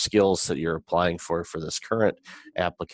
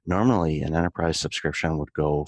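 smooth, continuous podcast ad read; sponsor read. Acted. Podcast host telling listeners about the show's sponsor, promotional ad read. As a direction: pitch the sponsor to listeners with lifts on key phrases.

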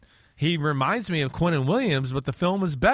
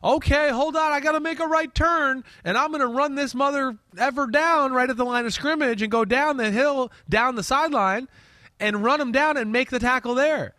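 excited player voice; 9 semitones higher than usual. Retold or imitated. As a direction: pitch way up like a pumped lineman. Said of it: "he could be like".

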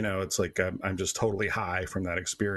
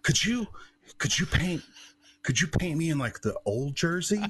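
higher, lightly slurred tipsy ask; tipsy Brett Hull; 9 semitones higher than usual. Retold or imitated. Retelling Brett Hull asking the painter, tipsy higher voice. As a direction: imitate a few-drinks-in hockey star asking a favor. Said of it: "he'd had a couple beverages".

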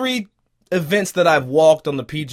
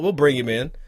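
ordinary talk, nothing marked

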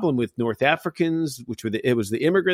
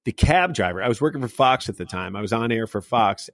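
ordinary talk

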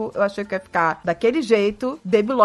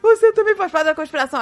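raised, mock-distraught accusation; hammed-up upset, higher voice; retold tearful accusation; 5 semitones higher, 4 dB louder than usual. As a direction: imitate a paranoid, weepy accusation. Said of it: "comecei a chorar de verdade".

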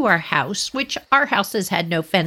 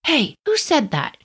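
higher-pitched challenge from a stranger; distant kids' voices; 7 semitones higher than usual. Retold or imitated. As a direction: imitate a big kid calling out. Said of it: "And you heard voices".

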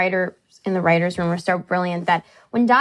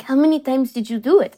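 put-on mom's Israeli accent, slightly higher pitch; 4 semitones higher than usual. Daughter imitating her mom on the phone, Israeli accent. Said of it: "my mom has an Israeli accent".

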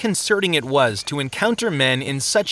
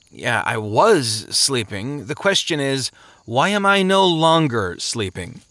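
drowsy sluggard. Acted. Woken man complaining to the stranger, groggy and grumbling. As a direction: drag it out, annoyed at being woken.

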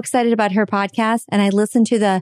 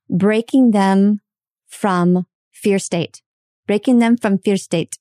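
put-on slow Indian accent; much slower than usual. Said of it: "she had this heavy, thick accent".

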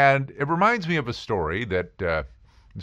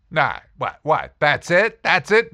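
sputtering incredulity, rising higher and louder; mock disbelief; 5 semitones higher, 5 dB louder than usual. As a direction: act out being stunned by the answer. Acted seeker disbelieves guru's answer.

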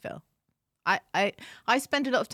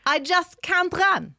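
lively read-out voice, higher and slow; reading a listener message; 6 semitones higher, 5 dB louder, slower than usual. Retold or imitated. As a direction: act out the listener laughing. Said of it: "She says".

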